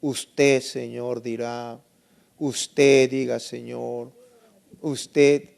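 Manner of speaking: stiff, halting, distant praying; imitated formal prayer. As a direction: mimic a reverent prayer, pausing after each address. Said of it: "escuchaba que oraban así".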